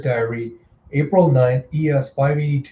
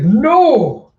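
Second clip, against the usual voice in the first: high, loud, drawn-out acted cry; dismayed cry; 10 semitones higher, 8 dB louder than usual. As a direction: wail it out high in mock horror. Character cries out in dismay.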